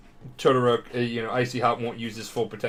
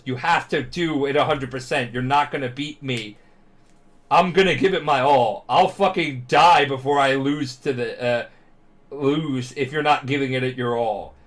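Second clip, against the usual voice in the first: mock yell; 2 semitones higher, 5 dB louder than usual. Retold fight speech, rising yell.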